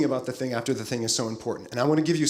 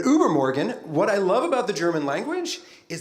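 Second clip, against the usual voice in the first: "Übermorgen" in a self-confessed bad German accent, ü rounded; 5 semitones higher than usual. Shown as a demonstration. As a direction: say "Übermorgen" the German way, a touch clumsy. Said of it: "pretend like you don't hear my really bad German accent".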